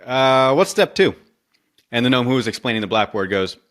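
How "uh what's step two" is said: puzzled Kyle. Retold or imitated. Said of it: "Kyle, is, is like".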